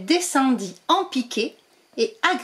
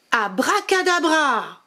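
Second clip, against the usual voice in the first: a touch higher, slower spell call; 5 semitones higher, slower than usual. Acted. Witch casting her second spell, mild calling voice. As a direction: call the magic word out again, milder.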